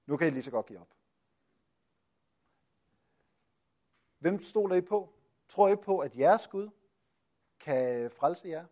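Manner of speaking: a retold enemy's taunt, lightly voiced; mocking taunt. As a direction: jeer at the besieged city, half-performed. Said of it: "og han råber ind".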